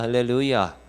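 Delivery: usual speaking voice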